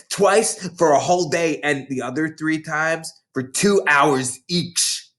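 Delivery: a lightly voiced big schoolgirl, gloating; bossy older girl. Hortensia sneering at the new girls, mildly voiced. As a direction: relish scaring the little ones. Boasting of her punishments.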